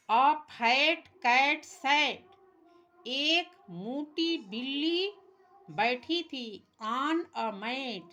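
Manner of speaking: put-on slow, emphatic word-by-word reading for children; slow read-aloud. Shown as a demonstration. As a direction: read it out slowly for young learners, leaning on each word. Teacher reads story line by line. (धीमे, ज़ोर देकर पाठ पढ़ना)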